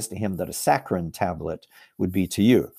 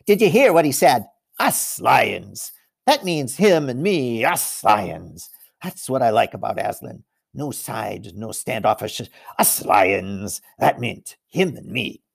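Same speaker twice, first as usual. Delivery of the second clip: proud lion; 3 dB louder than usual. Acted. The other lion boasts to all he meets, excited. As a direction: brag to everyone you pass. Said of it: "pretending to be very busy".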